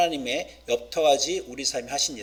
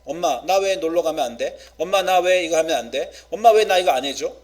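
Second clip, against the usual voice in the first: put-on complaining child; 4 dB louder than usual. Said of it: "자녀들이 우리에게 불평할 수".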